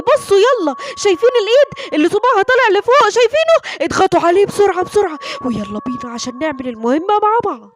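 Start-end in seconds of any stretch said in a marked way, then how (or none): 0.0-5.2 put-on higher, lively call to young viewers; excited kids' show plug; eager host appeal. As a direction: urge the children to look, pitch lifting. Host urges young viewers to click.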